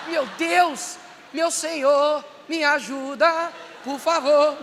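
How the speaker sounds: loud, shouted mock plea to God; mock panicked prayer. Preacher acting a Christian praying desperately in a nightclub, mock shouted plea. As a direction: cry out to God like you're in a panic.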